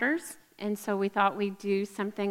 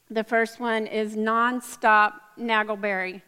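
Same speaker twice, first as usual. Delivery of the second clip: laughing announcement. Real, not acted. Announcing joke flavor, laughing.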